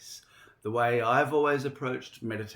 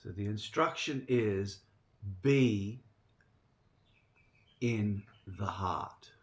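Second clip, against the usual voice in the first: guided meditation. Real, not acted. Gives the meditation instruction.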